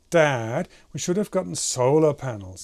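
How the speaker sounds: DAD and SOLAR hit hard; emphasized key words. Retold or imitated. Animator copies the voice actor's line, stress on DAD and SOLAR. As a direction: lean heavily on DAD and SOLAR, letting the rest run on. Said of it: "these are the most emphasized words".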